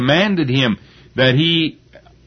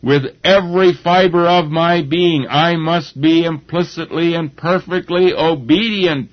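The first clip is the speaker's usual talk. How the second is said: a lightly voiced Jesus, higher, firmly resolving; a hint of Jesus steeling himself to obey; resolute inner vow; 5 semitones higher than usual. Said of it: "he was saying to himself".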